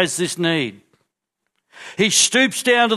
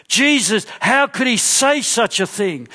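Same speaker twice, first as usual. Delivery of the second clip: outraged; 4 semitones higher than usual. Acted.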